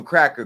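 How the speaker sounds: "Cracker" said with a short a instead of Crocker; mocking misnaming. Real, not acted. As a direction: twist the name into "Cracker" on purpose. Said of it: "his name is Crocker".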